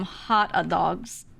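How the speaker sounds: "hot a dogs" with an extra "a" after hot; pronunciation demo. Shown as a demonstration. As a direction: sound out "hot a dogs" in three beats. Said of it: "Like that, so people know how to, how to pronounce it".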